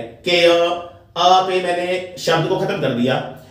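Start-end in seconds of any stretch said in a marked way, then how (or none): 0.0-0.6 केयर ending on the vowel, no r; silent r demo. Shown as a demonstration. Teacher repeats केयर with silent r. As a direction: drop the r in केयर. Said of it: "तब आर जो है silent है".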